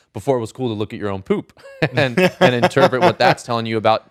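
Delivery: talking through a laugh; chuckling while speaking. Real, not acted. Laughing at talking about poop.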